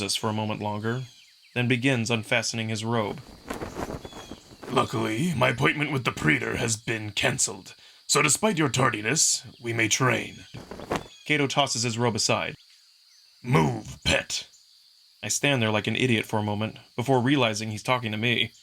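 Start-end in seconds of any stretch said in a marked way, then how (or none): 4.7-14.5 strict trainer scolding a late pupil; stern Kato. Acted. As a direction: rebuke with icy calm.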